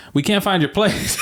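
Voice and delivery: high, laughing through the cops' words; can barely get the quote out for laughing. Retold or imitated. Quoting the police on the phone, laughing. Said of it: "They were like".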